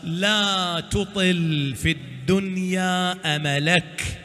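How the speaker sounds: slow, drawn-out sacred recitation; solemn divine address. Acted. Preacher quoting God's warning to Moses, solemn and slow. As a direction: stretch each word in a measured, chant-like quote.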